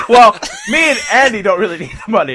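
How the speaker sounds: a firm, loud repeat to make the point. Real, not acted. Annoyed repeat after being told.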